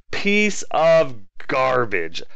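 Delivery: "Piece" stretched slow in disgust; slow contemptuous insult; disgusted mutter. Real, not acted. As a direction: spat out slowly. Cursing unit again.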